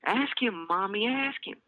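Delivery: put-on high, urgent child begging; eager little girl. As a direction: beg breathlessly with excitement. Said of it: "breathless with anticipation".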